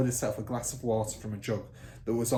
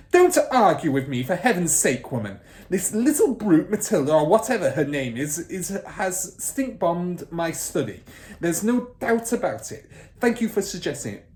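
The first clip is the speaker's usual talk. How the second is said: very loud, higher raging headmistress; furious bellow; 7 semitones higher, 8 dB louder than usual. Acted. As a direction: roar her down. Trunchbull voiced.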